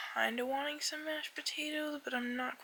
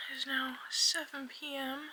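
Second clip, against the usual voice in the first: whispering. Real, not acted.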